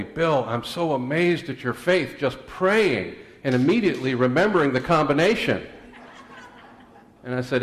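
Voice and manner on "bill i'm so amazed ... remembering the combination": lightly voiced amazed woman, pitched up. Volunteer praising the preacher's faith, mock amazement. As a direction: mildly imitate an admiring woman, higher. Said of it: "this woman told me".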